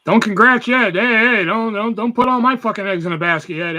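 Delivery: loud, urgent pleading to chat; loud protest. Real, not acted. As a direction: stop them before they jinx it. Protesting chat congratulating him.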